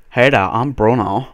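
put-on slow, drawn-out accented greeting; put-on Bruno accent. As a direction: introduce yourself in a silly foreign accent. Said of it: "make the accents".

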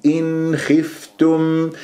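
drawn-out إن خفتم with the ن fully audible; clear nun. Shown as a demonstration. Teacher demands audible nun, slow careful recitation. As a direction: release a clean n before خ in إن خفتم. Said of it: "لازم تظهر عندي النون".

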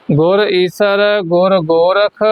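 ਗੁਰ ਈਸਰ ਗੁਰ ਗੋਰਖ as one phrase, then a brief halt; measured reading with a small break at ਗੋਰਖ; slight pause after. Shown as a demonstration. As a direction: hold lightly after ਗੋਰਖ. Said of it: "ਇੱਥੇ ਹੈਗੀ ਠਮਕ".

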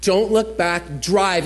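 a hint of a calm guiding voice; inner voice. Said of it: "I hear this voice that says".

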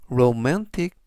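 romantic with the middle A stressed. Shown as a demonstration. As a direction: lean on the A in romantic. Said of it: "강세도 역시 중간 부분에 있는". (romantic 가운데 A에 강세)

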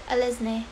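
"Alice Na-" as uh-LIZ NAY; alternative pronunciation. Shown as a demonstration. Streamer working through name options, trying "Alice Na-" as uh-liz NAY. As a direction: open "Alice Na-" on a reduced uh, end on NAY. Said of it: "so many ways you can pronounce it".

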